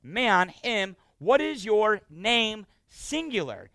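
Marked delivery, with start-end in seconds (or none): 1.2-2.7 gentle question. Shown as a demonstration. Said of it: "I'll say it the way he would have maybe said it".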